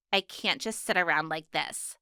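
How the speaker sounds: soft whisper to herself. A narrator's reading. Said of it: "she whispered to herself".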